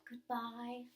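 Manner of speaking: slow, fond, drawn-out goodbye; a dress's tender farewell, slowed and trailing; lingering farewell. Pretend. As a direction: let each goodbye linger as if fading away. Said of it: "still saying to you as it vanished".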